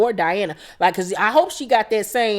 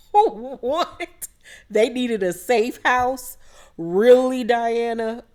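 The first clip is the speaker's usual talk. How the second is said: incredulous what; 3 semitones higher, much slower than usual. Real, not acted. Reacting to the safe house quote.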